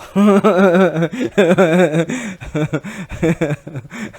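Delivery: big high burst of laughter; loud laugh. Real, not acted. Storyteller cracking up at his own tale, loud laugh. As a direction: laugh hard at the memory.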